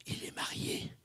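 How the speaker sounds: gossiping unvoiced whisper. Colleague whispering gossip about the two rings. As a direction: hush it like juicy gossip.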